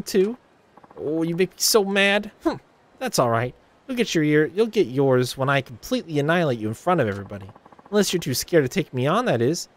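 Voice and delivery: high, scornful put-downs; catty Ulala sneering at Haruka; snide rival idol. Acted. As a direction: belittle the upstart.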